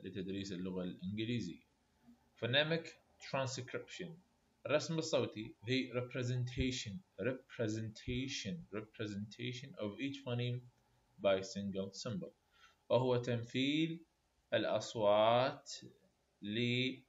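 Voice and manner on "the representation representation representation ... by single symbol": very slow, repeating words for note-taking; slow dictation. Shown as a demonstration. Teacher dictating a definition to students, slowly. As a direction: spell it out slowly for the class. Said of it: "definition dictated".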